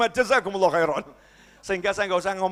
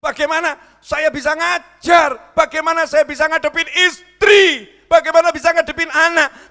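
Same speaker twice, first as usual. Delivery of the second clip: preacher's shout; 10 semitones higher, 11 dB louder than usual. Acted. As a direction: hammer the question at the crowd. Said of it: "saya tampak teriak-teriak". (teriakan khotbah yang keras dan lambat)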